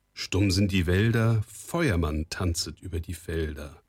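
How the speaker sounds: steady, measured verse without hesitation; fluent recitation. A narrator's reading. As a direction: recite the charm confidently from memory. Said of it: "noch einmal zusammen und ohne Anstoß". (ohne Stocken aufgesagter Spruch)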